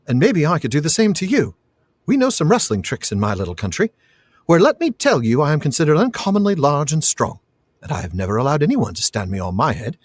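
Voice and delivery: playful bravado settling into measured warning; deliberate, theatrical hobbit boast; mock-menacing Pippin. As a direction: lightly act a small fighter's threat. Pippin mock-threatens the boy.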